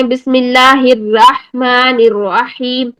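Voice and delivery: بسم اللہ الرحمن الرحیم recited slowly with heavy ra; slow Quranic recitation; tajweed recitation. Shown as a demonstration. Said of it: "تو ہم کیا کہتے ہیں؟".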